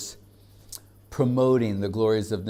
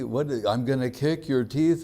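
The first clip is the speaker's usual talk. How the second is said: higher, disbelieving rising question; incredulous echo; 4 semitones higher than usual. Retold or imitated. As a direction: echo the threat in mock disbelief. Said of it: "And everyone goes".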